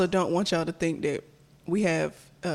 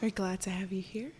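soft intimate whisper; ASMR whisper; 7 dB quieter than usual. Acted. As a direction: whisper close to the mic. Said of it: "Why are you whispering".

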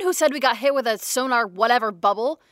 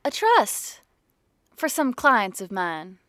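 sweet-talking con-artist voice, pitched up; weird put-on voice; slower than usual. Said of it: "The weird voice thing you do kinda freaks me out".

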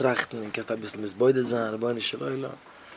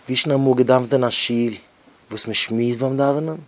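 raised, emphatic preacher call; louder preaching take; louder declaiming; 5 dB louder than usual. Acted. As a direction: lean into the rhetorical question. Repeats the line, stronger.

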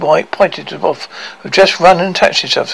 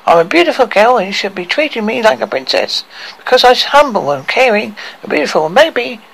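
tearful; 7 semitones higher than usual. A narrator's reading. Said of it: "broke into open sobs".

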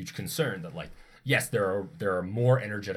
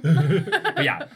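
laughing; 8 semitones higher, 10 dB louder than usual. Real, not acted. Laughs while speaking.

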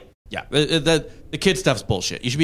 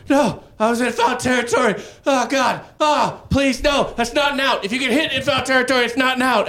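put-on high, pleading kid in pain, much higher; desperate pleading; 11 semitones higher than usual. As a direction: beg the ump as a hurt eighth grader, voice pitched way up. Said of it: "I was like".

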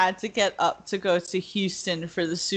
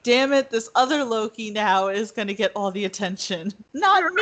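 mock frustrated Loki; faster than usual. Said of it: "Loki's kinda getting frustrated because he's like".

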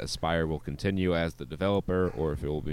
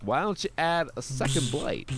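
high character voice; 7 semitones higher than usual. Pretend. Parody character.

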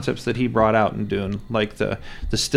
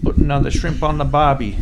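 lightly hammed-up Australian accent, louder; bad Australian accent; 3 semitones higher, 5 dB louder than usual. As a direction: put on a clumsy Aussie accent. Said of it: "my Australian accent's about as good as my British accent".

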